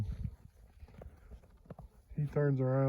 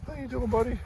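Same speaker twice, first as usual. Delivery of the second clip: pet talk; 10 semitones higher, faster than usual. Real, not acted. Talking to the dog.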